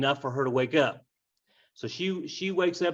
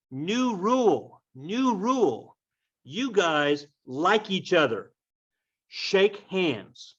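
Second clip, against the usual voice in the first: higher and slowed, laying down the rule; a hint of a stern ruler; 5 semitones higher, much slower than usual. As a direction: spell out the decree slowly like a principal. Prince lays down the law.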